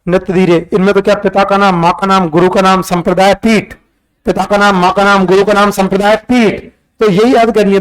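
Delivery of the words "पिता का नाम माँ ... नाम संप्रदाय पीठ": quick run through the list without pauses; rapid-fire drill. Shown as a demonstration. Teacher showing students facts to memorise get rattled off quickly, rapid drill. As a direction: rattle off the memory items back to back. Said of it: "तो फटाफट".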